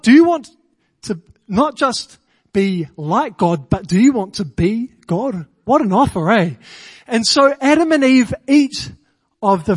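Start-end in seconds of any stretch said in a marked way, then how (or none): 0.0-5.5 tempting serpent. Acted. Serpent tempting Eve, lightly voiced and coaxing. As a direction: lure her in with the offer. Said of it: "the serpent comes to Eve and says".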